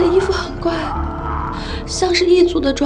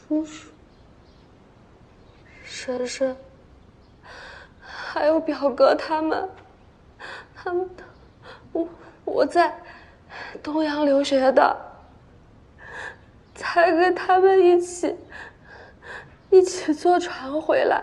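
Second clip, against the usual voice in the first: tearful speech, crying, much quieter; 4 dB quieter than usual. A survivor tells a constable who the dead people were, crying while talking. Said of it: "你先别哭了".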